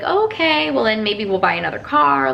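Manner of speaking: cautiously hopeful. Retold or imitated. Wife retelling her reply to husband's SUV offer, a bit hopeful. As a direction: perk up a little, retelling new hope. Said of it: "getting a little bit more hopeful".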